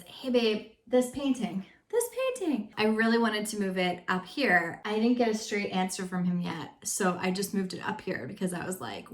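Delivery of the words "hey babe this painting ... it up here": sweet ask. Shown as a demonstration. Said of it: "Another example is".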